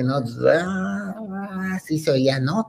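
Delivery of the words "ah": high sung-out "aah" as fanfare; imitated music intro. Imitating the music that opened the record, sung fanfare. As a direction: mimic an orchestral swell with the voice. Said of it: "empieza una música así bien fuerte".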